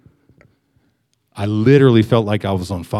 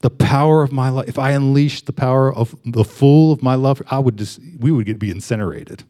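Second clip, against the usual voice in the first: small still voice. Retold or imitated. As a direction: let the words fall to a tender near-hush. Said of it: "little, little small voice".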